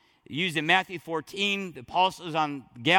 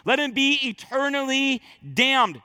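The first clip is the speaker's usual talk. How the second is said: strong proclamation; 5 semitones higher than usual. Retold or imitated. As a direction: pronounce it with full weight. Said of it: "strongest language he could use".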